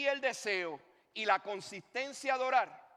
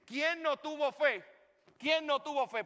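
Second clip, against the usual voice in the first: imitated accusing question, pitched up; challenging friend; 6 semitones higher than usual. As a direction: demand an answer from everyone standing around.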